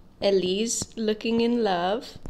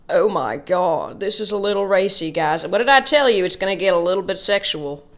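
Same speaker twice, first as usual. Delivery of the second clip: flustered; 6 dB louder than usual. Real, not acted. Flustered over racy drawing.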